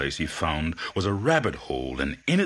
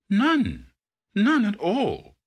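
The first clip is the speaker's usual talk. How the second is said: high-pitched, nervous denial; frightened cry; 14 semitones higher, 4 dB louder, slower than usual. Acted. Iguana answering the king, high and frightened. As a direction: squeak it out in a panic. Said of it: "cried the iguana".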